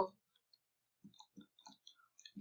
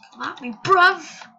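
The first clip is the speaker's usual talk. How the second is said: louder, higher cocky roadman taunt; mock taunt; 6 semitones higher, 10 dB louder than usual. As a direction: call him out like a London street tough. Mock taunt at enemy player.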